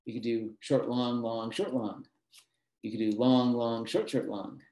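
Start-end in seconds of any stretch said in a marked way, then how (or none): 0.6-2.1 "short" quick, each "long" held double; metrical short-long rhythm. Shown as a demonstration. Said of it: "pronounced for exactly twice as long as short". 3.2-4.6 each "long" held double, "short, short" quick; metrical long-short rhythm. Shown as a demonstration. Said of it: "pronounced for exactly twice as long as short".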